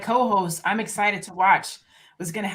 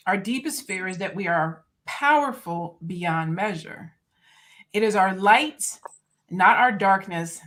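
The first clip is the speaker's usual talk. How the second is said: inspirational reading. Shown as a demonstration. Reading a favorite quote to the podcast audience, measured and solemn. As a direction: read it like a spoken-word piece. Reads Williamson quote aloud.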